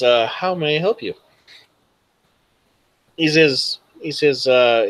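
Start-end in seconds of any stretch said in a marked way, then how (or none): 0.3-1.1 lightly voiced assistant, pitched up; a hint of a computer's helpful prompt; automated assistant. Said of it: "and then it says".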